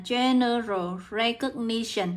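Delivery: "general recognition" said at half speed; slow dictation. Shown as a demonstration. Teacher repeating the phrase for students to note down, slow dictation. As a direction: draw out "general recognition" slowly for note-taking.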